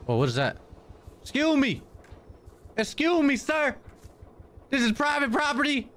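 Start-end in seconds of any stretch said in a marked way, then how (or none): 1.2-5.9 mock-polite falsetto; prim high voice to a stranger. Player mocking a trespasser, prim falsetto.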